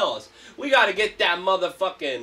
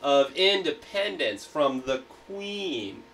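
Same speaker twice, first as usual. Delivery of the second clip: slow reread; 3 semitones lower, slower than usual. Shown as a demonstration. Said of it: "you forgot the quotes".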